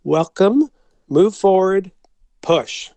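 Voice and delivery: firm welcome, voice projected to strangers at a door; full voice. Retold or imitated. To terrified pilgrims at the church door, in a full voice. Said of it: "in a full voice".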